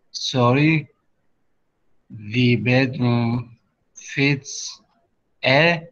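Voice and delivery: "A" lifted and left hanging; checking question. Shown as a demonstration. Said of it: "we will say".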